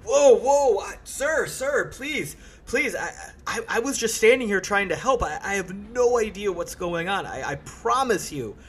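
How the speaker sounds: high-pitched, stammering panic; flustered, frightened pleading; intimidated porter. Acted. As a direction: plead nervously, tripping over the words. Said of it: "he's super intimidated of you".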